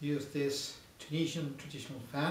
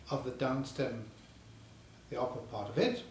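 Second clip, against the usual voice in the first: talking around a pipe; mouthpiece at the lips; 2 semitones lower than usual. Real, not acted. Seen 0: Mouthpiece repeatedly held at lips while speaking, briefly lowered between.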